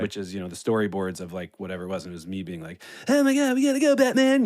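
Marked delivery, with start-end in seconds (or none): 3.1-4.4 high, excited Fallon voice, jumping way up; Jimmy Fallon impression. Doing a Fallon impression for the storyboard temp track, high and giddy. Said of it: "the temp Fallon voice".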